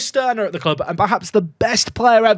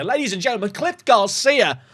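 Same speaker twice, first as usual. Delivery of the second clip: mock announcer; 4 semitones higher than usual. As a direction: announce him like a ring MC. Announcing the goalscorer.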